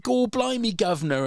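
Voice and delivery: high, hammed-up Cockney imitation; mock Cockney. Director demonstrating the English accent he wants, mock Cockney. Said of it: "best sort of Dick Van Dyke".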